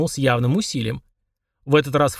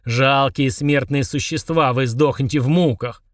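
threatening giant; slower than usual. Acted. Genie threatens the twins.

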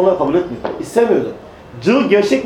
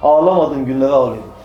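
put-on tearful old companion; 6 semitones lower than usual. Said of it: "Hüngür hüngür ağlıyor".

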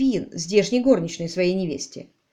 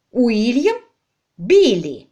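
rising doubtful echo, then louder; incredulous; 2 semitones higher, 6 dB louder, much slower than usual. A narrator's reading. Wife echoing his choice in disbelief, then protesting. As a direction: question the name in disbelief. Lady Bostock doubting the name.

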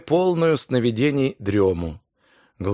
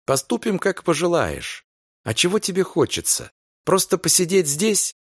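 gentle soothing; 5 semitones higher than usual. Acted. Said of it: "утешал её Энтони".

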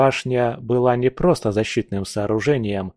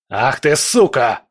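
1 yelling; 2 semitones higher, 5 dB louder than usual. A narrator's reading. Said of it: "заорал Леос".

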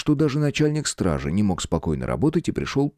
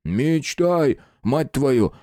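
cursing guard; 5 semitones higher, much slower than usual. A narrator's reading. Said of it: "выругался стражник".

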